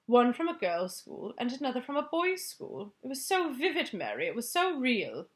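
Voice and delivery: upset Queen. Acted. Queen telling her nightmare.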